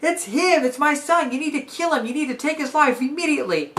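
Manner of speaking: frantic father. Retold or imitated. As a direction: burst in panicked to warn the king. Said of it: "his dad shows up and he says".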